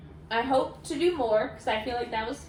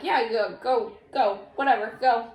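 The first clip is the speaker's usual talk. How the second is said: dismissive mom; 6 dB louder than usual. Retold or imitated. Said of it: "They're just like".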